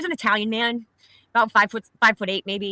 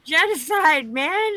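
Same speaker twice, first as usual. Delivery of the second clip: annoyed correction; 9 semitones higher, slower than usual. Real, not acted.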